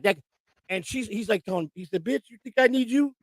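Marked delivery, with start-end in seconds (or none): 2.0-3.1 lightly imitated cocky athlete, higher pitch; Ocho Cinco. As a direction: imitate an arguing star pulling rank, pitched up. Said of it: "That sounds like him".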